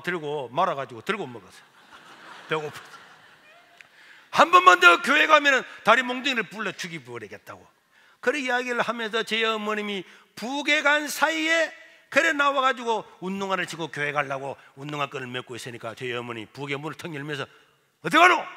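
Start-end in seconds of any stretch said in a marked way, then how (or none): 4.3-7.7 loud, higher-pitched threat; acted angry ultimatum; threatening mother. Mother threatens son over church. 18.0-18.4 high, loud sudden demand; acted startling yell; mother's sharp challenge. Mother catches son leaving.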